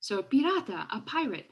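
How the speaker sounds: "pirata" and "pirate" given one falling tune; match the fall on pirata and pirate; same intonation. Shown as a demonstration. Lecturer to students, showing the matched falling tune. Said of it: "repeat the intonation when she's saying the, the word in English".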